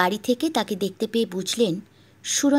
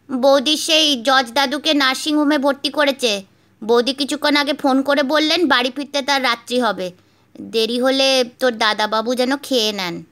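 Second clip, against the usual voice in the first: higher, louder maid's voice; a hint of an excited maid; 3 semitones higher, 5 dB louder than usual. Maid reports to inspector.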